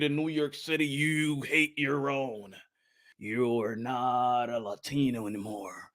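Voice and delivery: slow, soft whisper; whispered bitter point about his own. Real, not acted. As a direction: let it drop to a whisper. Closing serious remark.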